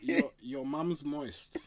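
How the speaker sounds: laughing. Real, not acted. Cheeky joke through laughter.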